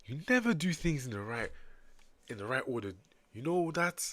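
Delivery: put-on African accent that misses the mark; botched African accent. Scolding line for a Sumerian character, botched African accent. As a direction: attempt an African accent and miss. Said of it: "I got that terribly wrong".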